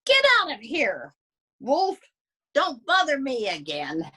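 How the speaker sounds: a bratty piglet shouting him off; rude little pig. Acted. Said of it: "what that rude little porker answered".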